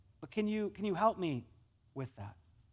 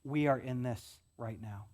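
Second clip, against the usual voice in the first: empathetic apology; 5 semitones lower than usual. Shown as a demonstration. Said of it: "It's just say".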